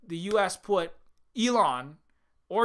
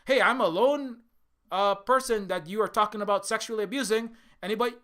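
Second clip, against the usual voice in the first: mock cheerful call-out; 3 semitones higher than usual. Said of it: "You know, or".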